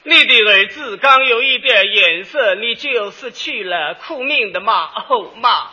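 a hint of hammed-up stage wailing, slow; mock old-school stage weeping; understated melodramatic lament; stagey crying. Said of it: "他这味儿。".

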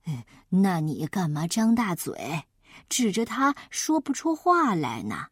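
softly questioning granny; puzzled grandma. Acted. Grandma questions the child's open mouth, puzzled. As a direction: ask it like a puzzled old grandmother.

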